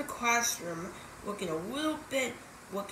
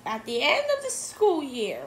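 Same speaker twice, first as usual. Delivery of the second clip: stern teacher; 6 semitones higher, 7 dB louder than usual. A narrator's reading. Teacher finishes her sentence.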